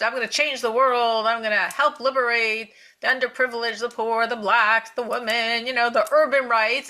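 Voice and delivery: loud, driving campaign zeal; revved up. Retold or imitated. New congresswoman vowing to help the underprivileged, revved up. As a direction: rattle off the causes with rising fervor.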